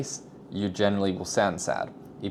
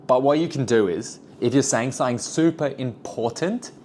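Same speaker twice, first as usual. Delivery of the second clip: louder for importance; 5 semitones higher, 3 dB louder than usual. Shown as a demonstration. Coaching viewers, demoing a louder important line. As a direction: raise the volume for the key part. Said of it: "you can bring your volume way up".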